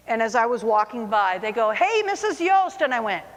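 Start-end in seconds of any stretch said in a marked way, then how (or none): 1.7-2.8 high, drawn-out sing-song greeting; teasing students. Retold or imitated. Mock-sweet hello from pranking students. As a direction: students teasing the teacher as she walks by.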